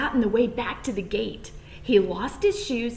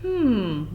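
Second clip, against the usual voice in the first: mumbled hmm. A narrator's reading. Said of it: "all she could mumble".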